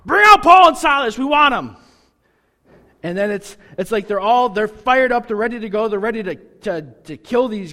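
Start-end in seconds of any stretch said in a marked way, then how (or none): 0.1-1.8 much higher, louder mob yell; mob shout. Retold or imitated. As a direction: shout for them like an angry crowd. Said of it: "They're like".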